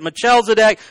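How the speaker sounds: "Melchizedek" with ch as in chess, muh-CHEL-zuh-dek; soft CH pronunciation. Shown as a demonstration. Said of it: "I've heard it".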